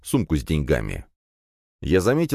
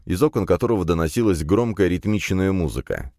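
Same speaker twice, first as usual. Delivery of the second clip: ordinary delivery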